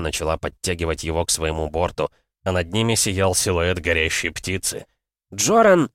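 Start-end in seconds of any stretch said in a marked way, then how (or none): 5.3-5.9 high, loud hail; urgent shouted summons; calling out. A narrator's reading. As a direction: call a name over roaring wind. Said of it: "позвала Миас сквозь ревевший ветер".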